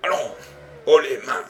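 loud, firm order at gunpoint; shouted command. A narrator's reading. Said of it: "répéta le détective". (ordre crié, ferme et fort)

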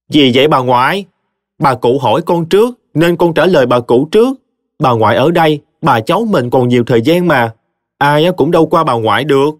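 put-on boy smoothing things over with grandma, high and cheeky; coaxing child. A narrator's reading. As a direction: sweet-talk grandma with a sly grin. Boy sweet-talks his grandmother.

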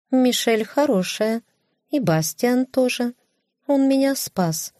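high haughty cat voice. Acted. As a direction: speak high like a proud cat. (высокий кошачий голос)

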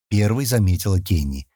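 usual speaking voice

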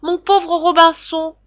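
very high, loud parrot squawk, drawn out slowly; shriller wailing parrot. A narrator's reading. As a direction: wail it like a forsaken parrot. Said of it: "plus stridente encore et plus éplorée".

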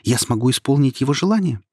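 rising with eager hope; a star suddenly full of hope; eagerly asks the voice about the wish; inspired, eager. Acted. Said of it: "воодушевлённо спросила звезда".

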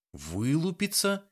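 high, slow, disbelieving question; incredulous echo. A narrator's reading. Young woman repeats his strange word in disbelief. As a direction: stretch the word out in shock. Valeria echoes him in disbelief.

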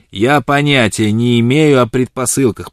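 put-on old man grumbling at fancy words. A narrator's reading. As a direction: grumble it stubbornly. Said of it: "проворчал он".

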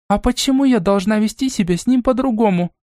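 a high, indignant challenge; a sister objecting to her grandmother, indignantly; indignant exclamation. Acted. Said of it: "воскликнула Настя".

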